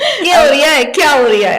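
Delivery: laughing, lilting Bhopali accent. Shown as a demonstration. Guest practises the phrase in amused Bhopali accent. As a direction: play with the Bhopali "रिया". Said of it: "Bhopali accent में बोलना है".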